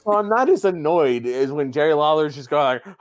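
ordinary talk, nothing marked

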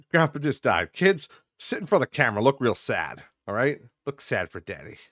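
mock vlogger dad, bossy and hammed-up; hammed-up fake dad. Dad orders kids to look sad for camera, hammed-up. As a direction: lightly play a pushy dad staging sadness. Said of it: "just as an example".

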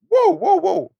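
high, sudden alarmed whoa; startled whoa. Retold or imitated. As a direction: jump back in shock, pitch way up. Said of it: "you might be like".

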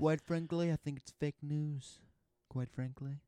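lightly voiced politician; Donald Trump. Friend performs Trump for the podcast, lightly put on. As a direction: give a hint of the president's delivery. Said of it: "we'll do Donald Trump first".

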